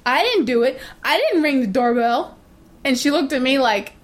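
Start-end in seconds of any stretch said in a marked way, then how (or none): 0.1-2.4 light imitation of a kid blurting a denial; guilty kid. Neighbor kid denies ringing the doorbell, lightly voiced and innocent. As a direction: shrug it off like a guilty little boy.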